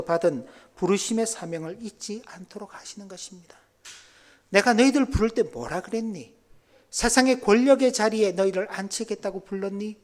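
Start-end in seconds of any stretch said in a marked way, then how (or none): 4.5-10.0 challenging reminder. Acted. Preacher voices Jesus challenging disciples.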